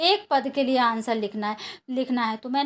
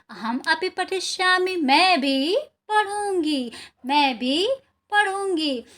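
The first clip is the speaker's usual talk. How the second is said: put-on excited girl; 4 semitones higher, slower than usual. Girl's joyful line in lesson.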